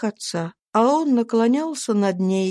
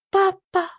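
reach out gently to papa; tender call; 10 semitones higher than usual. A narrator's reading. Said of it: "ласково".

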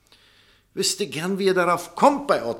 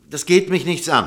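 louder, brushing it off; emphatic refusal; 5 semitones higher, 7 dB louder than usual. Acted. Doctor rejecting any concern with what came before, emphatic. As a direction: push the matter away firmly.

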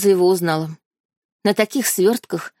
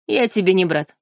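madman's smirk. Acted. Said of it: "с усмешкой безумца проговорил парень".

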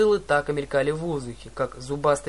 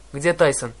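firm, louder demand; commanding voice; 5 dB louder than usual. Acted. Hero demanding of the sailor where Tyson is, commanding. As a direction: ask it like an officer. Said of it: "командным голосом спросил я".

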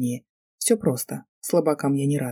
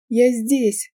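high, hammed-up tragic call; girl calling to her rescuer, overdone tragic tone; 7 semitones higher, 4 dB louder than usual. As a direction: pile on the tragedy. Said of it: "Я добавила побольше трагичности в голос".

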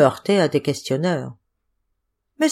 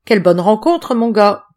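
hearty loud greeting; 3 semitones higher, 5 dB louder than usual. A narrator's reading. Hearty mocking greeting to victim.

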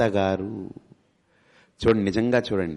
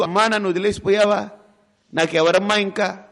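mock crying; 8 semitones higher than usual. Son mourning his mother, high mock crying. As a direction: plead like a son who lost his mother, lightly hammed. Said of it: "అందరూ వచ్చి ఏడుస్తుంటారు".

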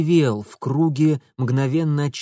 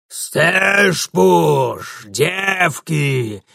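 громкий ликующий крик, грубый голос; завопить от радости; радостный вопль; 2 semitones higher, 4 dB louder, much slower than usual. A narrator's reading. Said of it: "радостно завопил он". (радостно завопить)

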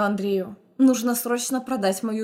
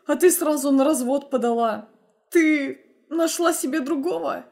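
a slightly higher, wheedling male voice, lightly voiced; ex-husband's voice; 4 semitones higher than usual. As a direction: coax her like a guilty husband. Ex-husband pleading with Zhenya.

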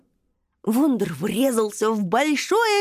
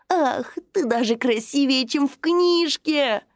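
enchanted sigh; 3 semitones higher than usual. Acted. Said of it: "очарованно вздохнул красный дракоша".

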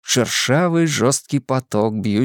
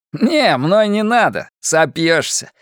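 exuberant; 8 semitones higher, 3 dB louder, slower than usual. A narrator's reading. Antonio in tandem flight.

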